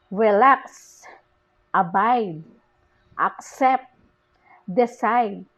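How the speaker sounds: relax, abide, accept, decide, among, against, permit, between, each with a strong second syllable; word-by-word list, re-LAX, a-BIDE, ac-CEPT, de-CIDE, a-MONG, a-GAINST, per-MIT, be-TWEEN; second-syllable stress. Shown as a demonstration. Teacher listing verbs and prepositions, second syllable stressed in each, relax to between. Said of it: "prepositions are stressed on the second".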